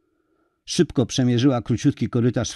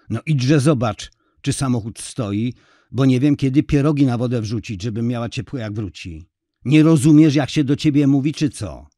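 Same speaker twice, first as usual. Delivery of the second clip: nagging that builds to a louder outburst; exasperated scolding; 2 semitones higher, 5 dB louder than usual. Acted. Wife to husband idling on the sofa, exasperated scolding.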